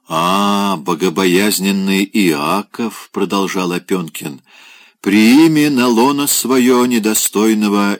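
медленно и выше, напыщенно; торжественно клянчит рюмку; пьяное витийство. Acted. Пьяный Опёнкин просит рому. (Опёнкин напыщенно просит Якова поднести рому)

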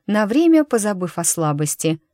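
ordinary delivery

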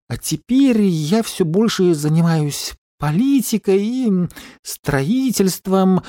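high, boastful, cigar between the teeth; cigar in mouth. Acted. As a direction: brag around a cigar in the mouth. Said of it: "не вынимая сигары изо рта".

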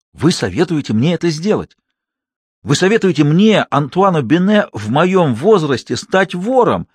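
put-on an old man stung to the quick; mildly voiced affronted troupe leader; indignant outrage. A narrator's reading. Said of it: "Голос его гремел".

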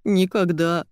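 ordinary delivery, nothing marked

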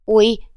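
a quick pained cry; sudden ouch. Acted. Manager feeling a stab in his side, yelping.

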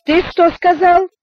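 high, loud, slow challenge; sharp challenge. A narrator's reading. Джулиан резко окликает Эдгара из-за двери, громко и с вызовом. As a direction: snap it back, drawing it out.

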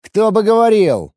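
loud, high, losing patience; can't hold it in any longer; sarcastic burst of indignation; exasperated outburst. Acted. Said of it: "не выдержал скрипач".

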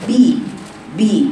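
بي with a long i sound; full kasra. Shown as a demonstration. Teacher models the correct kasra on ba. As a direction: stretch the kasra on بي. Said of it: "يبقى الكسرة".

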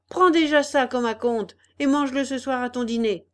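loud angry retort; shouting. Acted. Biggest bully shouts at the puppet, loud angry. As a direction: yell it back in his face. Bully threatens before punching.

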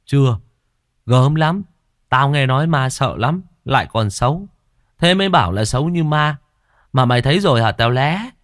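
boy in the tree telling ghost lore, lightly voiced. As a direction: sound like a boy spooked but curious.

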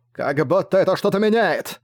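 a mild sneering retort; spat out. A narrator's reading. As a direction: spit the words at him scornfully. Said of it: "Выплюнул красный".

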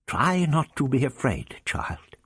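gently. Acted. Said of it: "he said gently".

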